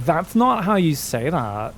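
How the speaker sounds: mock American. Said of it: "Americans will be like".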